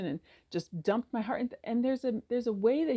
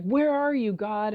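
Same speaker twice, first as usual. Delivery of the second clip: bitter cry; 3 semitones higher, 5 dB louder, slower than usual. Retold or imitated. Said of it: "almost bitter".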